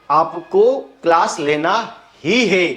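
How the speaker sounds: ही pressed a little harder; stress on ही. Shown as a demonstration. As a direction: lean on the word ही. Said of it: "ही पर आपने जोर दिया". (ही पर जोर देकर)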